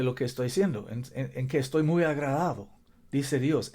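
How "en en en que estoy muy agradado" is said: quick American-accented Spanish; hurried Spanish with an American accent. Real, not acted. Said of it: "perdón mi español".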